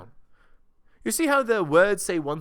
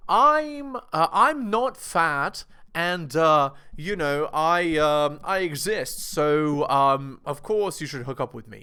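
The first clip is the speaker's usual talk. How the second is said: entitled girl impression; 5 dB louder, slower than usual. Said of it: "it's just entitlement".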